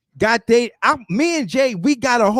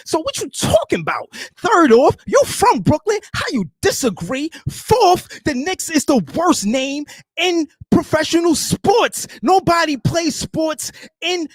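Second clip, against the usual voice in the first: wrestling promo; 4 semitones higher, slower than usual. Acted. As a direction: bark it like a wrestler on the mic. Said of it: "your rant and your wrestler voice".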